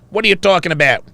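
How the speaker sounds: put-on rough stab at a Wisconsin accent; attempted Wisconsin accent. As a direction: imitate a dad in an unsure Wisconsin accent.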